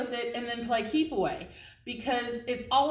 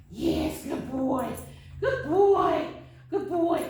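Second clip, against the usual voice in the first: excited praise; 4 semitones higher, slower than usual. Real, not acted. Praising dog.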